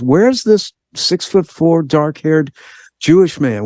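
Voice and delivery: lightly voiced son, wondering aloud at the mirror; puzzled son. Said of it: "looking in the mirror and goes".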